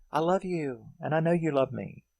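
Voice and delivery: imitated love declaration.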